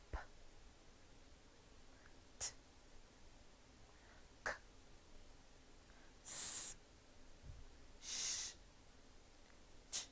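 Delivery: P, t, k, s, sh, ch as short bursts of air without voice; voiceless consonants. Shown as a demonstration. Teacher repeats the drill with pupils, P, t, k, s, sh, ch voiceless. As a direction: switch the voice off for P, t, k, s, sh, ch. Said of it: "because your voice is off".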